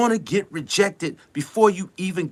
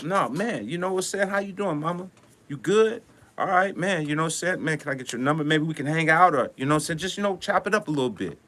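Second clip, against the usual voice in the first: relaxed, softer, cool player's pickup line; smooth like a G; 4 semitones lower, 6 dB quieter than usual. Shown as a demonstration. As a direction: lay it back easy and confident. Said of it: "you gotta speak like a G now".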